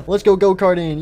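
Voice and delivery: lifted, excited little cheer; eager child. Acted. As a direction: cheer for a go-kart ride. Child answers the robot eagerly.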